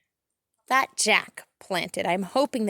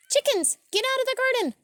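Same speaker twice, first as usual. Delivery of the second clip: high, loud, fast shout; 5 dB louder, faster than usual. Real, not acted. Gardener yelling at chickens in her garden. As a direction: shoo them off loudly.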